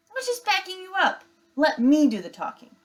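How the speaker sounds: high, fast, defensive whine; whiny little brother bear. Acted. Brother bear defending himself to his sister, high whiny squeak. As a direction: squeak it out, hurt and pushy.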